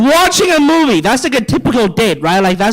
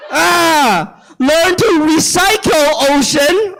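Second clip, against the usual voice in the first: slow, higher scolding; mock scold aimed at the ocean; 5 semitones higher, much slower than usual. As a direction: lecture the ocean slowly, mocking.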